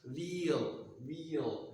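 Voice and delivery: "veal" as VEE-uhl; double glide. Shown as a demonstration. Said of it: "second glide or the double glide".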